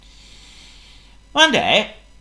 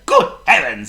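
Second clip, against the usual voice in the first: gasping; 5 dB louder than usual. Acted. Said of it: "he gasped".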